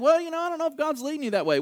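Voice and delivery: mock wavering counsellor; doubtful advisor. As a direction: hurry through a reluctant doubt. Voices second doubtful advisor.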